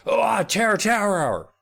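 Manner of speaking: high, slow, delighted Oh, Terror Tower; thrilled, voice jumping way up; excited gasp. Retold or imitated. Eddie thrilled at the tour choice, delighted high cry.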